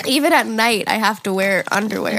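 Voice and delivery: stuffy blocked-nose voice; congested. Real, not acted. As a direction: talk through a stuffy nose. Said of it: "Sorry, I'm so congested".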